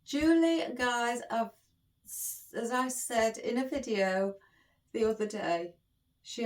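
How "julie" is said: excited call. Real, not acted. Cries out gift-giver's name after laughing.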